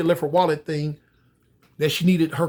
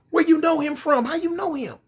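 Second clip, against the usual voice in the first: urgent disbelief; 10 semitones higher than usual. Acted. Son pressing his mother.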